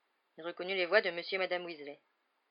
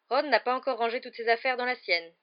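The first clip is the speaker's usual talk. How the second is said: higher, louder pained complaint; 6 semitones higher, 8 dB louder than usual. A narrator's reading. Percy reporting Ron's mess to his mother, pained. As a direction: complain as if deeply wronged. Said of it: "dit Percy d'un ton douloureux".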